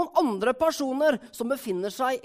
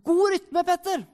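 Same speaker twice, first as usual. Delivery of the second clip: cheering coach calling out, raised pitch; encouraging call; 5 semitones higher than usual. Acted. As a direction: call encouragement to a passing athlete. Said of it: "roper sekundanten gode og oppmuntrende ord".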